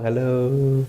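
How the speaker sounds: tender greeting; gentle hello. Shown as a demonstration. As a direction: greet with an open heart. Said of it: "then you can talk".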